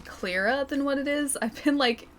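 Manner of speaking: slightly hoarse, croaky throat. Real, not acted. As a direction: speak with a bit of croak. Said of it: "it's kinda croaky today".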